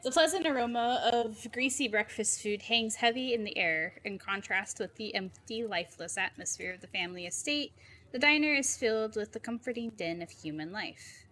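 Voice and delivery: measured scene-setting narration; story narration. A narrator's reading. Narrator sets the diner scene, measured story narration. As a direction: read it as atmospheric game narration.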